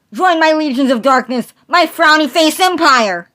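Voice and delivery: loud, high crazed proclamations; unhinged shouting lunatic; manic ranting madman. Acted. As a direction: rant like a deranged prophet. Noodle Boy's loud mad ranting.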